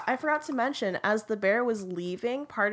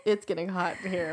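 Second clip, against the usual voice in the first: laughing; faster than usual. Real, not acted. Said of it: "I'm crying".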